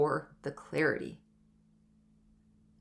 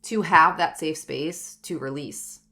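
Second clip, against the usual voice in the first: close to tears. Real, not acted. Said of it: "I'm gonna start crying".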